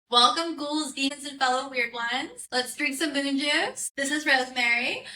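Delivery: playful spooky podcast intro; horror host. Acted. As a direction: greet the ghouls like a horror host. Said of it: "never done the intro in front of people".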